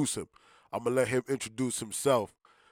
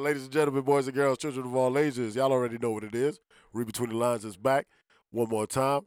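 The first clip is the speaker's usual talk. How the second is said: ringmaster; 3 dB louder than usual. Acted. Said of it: "that's how I'm gonna start this interview".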